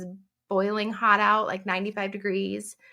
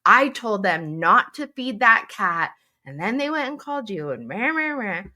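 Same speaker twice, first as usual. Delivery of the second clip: livid husband; 4 semitones higher, 4 dB louder than usual. Retold or imitated. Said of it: "He was like".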